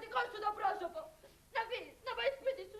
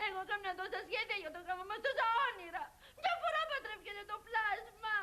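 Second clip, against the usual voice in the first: tearful whining. Acted. Bride to fiancé about her wedding plans, tearful whine. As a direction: whine through tears, half sobbing.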